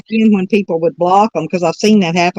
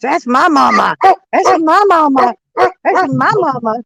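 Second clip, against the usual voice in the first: voicing the dog; 8 semitones higher than usual.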